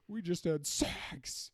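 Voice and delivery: slow, deadpan movie line; Patrick Warburton voice. Retold or imitated. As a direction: drag it out, deadpan. Imitating Warburton's Bee Movie line.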